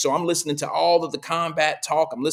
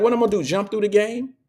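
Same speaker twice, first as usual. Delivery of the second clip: nephew's voice; 7 semitones higher, faster than usual. Retold or imitated. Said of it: "so he was like".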